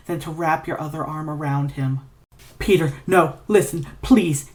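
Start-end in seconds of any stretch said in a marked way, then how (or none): 2.6-4.5 shaky pleading. Acted. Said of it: "and he's shaking".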